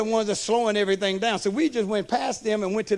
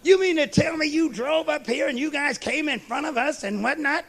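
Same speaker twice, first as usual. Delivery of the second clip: higher, pinched mock outrage; mimicking indignant lady; 4 semitones higher than usual. Preacher mocks the golfer who confronted them, light huffy outrage. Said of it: "had the unmitigated gall to confront".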